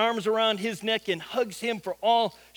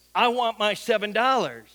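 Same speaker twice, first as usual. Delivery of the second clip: firm, louder mock demand; mildly menacing; 2 semitones higher, 5 dB louder than usual. Homeless guy demands his money from Nathan, mildly menacing. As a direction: press the demand with a touch of threat. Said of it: "with a somewhat menacing look says".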